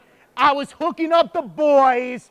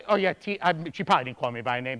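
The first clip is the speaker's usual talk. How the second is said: ordinary delivery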